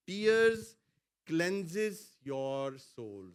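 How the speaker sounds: call-and-response line; slow emphatic phrase. Shown as a demonstration. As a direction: stretch cleanses out for the church to repeat. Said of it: "بولے میرے ساتھ".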